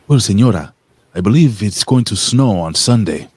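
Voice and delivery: lightly voiced, accented house manager. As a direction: answer the señora as her house manager. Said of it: "her house manager".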